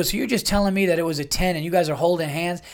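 accusing rant. Retold or imitated. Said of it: "You go".

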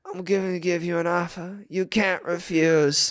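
imitated Italian gangster movie accent; terrible Italian accent. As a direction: play a wannabe Italian mob boss. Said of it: "in an Italian accent".

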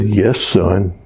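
lightly voiced deity calmly answering a falling man; voice of God. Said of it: "And the voice said".

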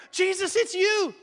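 high, loud and slow with wonder; joyful shout. Acted. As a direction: cry it out, amazed. Peter cries out on water.

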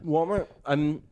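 talking around an ice cube; ice in mouth. Real, not acted. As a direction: speak with ice on the tongue. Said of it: "You have an ice cube in your mouth".

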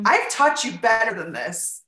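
slow, scolding parent voice; a parent scolding a disappointing teen, slow and stern; blowing up parent. Retold or imitated. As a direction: lay the guilt on heavy. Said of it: "blow up inside of".

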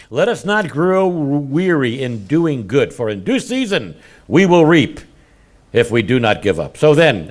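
scripture reading. Acted. Reads scripture.

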